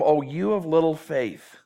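slow, kind, not condemning; patient teacher's gentle chiding; gentle rebuke. Shown as a demonstration. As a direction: say it tenderly, slowly. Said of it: "Don't read it in a condemning tone".

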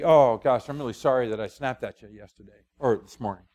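low, contrite husband saying sorry; apologizing to wife. Pretend. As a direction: own up gently, voice dropping. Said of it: "if I say to Becky".

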